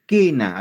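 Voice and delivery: Quena as "KEH-na", U silent; pronunciation demo. Shown as a demonstration. Teacher showing the U is silent, Quena said as "KEH-na". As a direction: sound out Quena firmly with a plain K. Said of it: "a ver, pronuncia quena".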